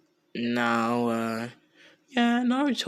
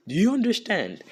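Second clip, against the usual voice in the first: louder, higher demanding question; mock-menacing check that they got it; retold warning, pushed up and loud; acted threat; 9 semitones higher, 5 dB louder than usual. Naruto threatens the council.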